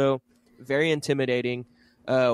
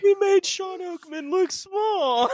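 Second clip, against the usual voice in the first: laughing; slower than usual. Real, not acted. Laughing fit continues.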